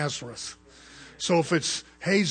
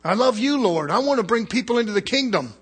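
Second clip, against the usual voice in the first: higher and louder, stretched-out pleading; earnest, raised plea to God; pleading with the Lord; 6 semitones higher, 6 dB louder than usual. Retold or imitated. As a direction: beg the Lord with your whole heart. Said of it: "I'm thinking".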